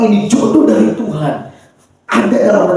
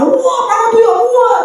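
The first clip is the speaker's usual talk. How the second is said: high-pitched mock rant at mom; hammed-up angry protest, pitched way up; angry outburst; 14 semitones higher than usual. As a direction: act out a child blowing up at a parent. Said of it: "jangan kemudian langsung marah-marah".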